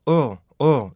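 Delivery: 어 as a short voiced L, tongue on the palate; dark L sound. Shown as a demonstration. Teacher models the L sound, short dark L. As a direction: say "어" as a short, falling uhl. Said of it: "이 소리가 나요".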